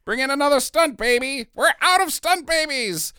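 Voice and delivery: high, urgent call; excited call. Retold or imitated. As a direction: shout it like a panicked crew. Mock film crew shouting.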